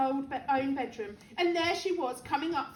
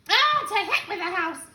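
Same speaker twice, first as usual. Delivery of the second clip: put-on high, loud old-woman holler; defiant shout; 5 semitones higher, 7 dB louder than usual. A narrator's reading. Grandma scorning George's worry, defiant shout. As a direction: shout it off dismissively. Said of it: "she shouted".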